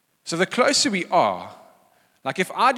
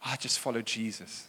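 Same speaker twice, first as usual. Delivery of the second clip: holier-than-thou; 6 semitones lower, 11 dB quieter than usual. Acted. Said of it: "the really holy oaks were going".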